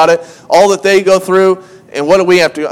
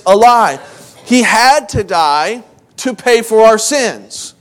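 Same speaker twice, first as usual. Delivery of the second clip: raised, insistent sermon voice; emphatic preaching; 3 semitones higher than usual. Real, not acted. Preacher telling the church that Jesus lives, emphatic preaching. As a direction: drive each point home to the congregation. Preaches the resurrection and sin debt.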